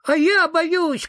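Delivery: high, loud, slow scared shout; frightened cry. Acted. Sniff shouts at the ghost that he is still scared, high and loud. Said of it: "крикнул Зверок-Шнырок".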